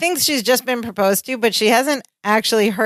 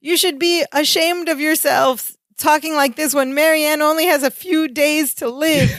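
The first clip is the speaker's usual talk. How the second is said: high-pitched exasperated outburst, retold; finally snapping; 5 semitones higher than usual. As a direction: act out losing patience with everyone. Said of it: "Balky finally snaps".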